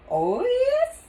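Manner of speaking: high, loud and delighted; gleeful. Acted. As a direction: relish the adventure. Sheila gleeful.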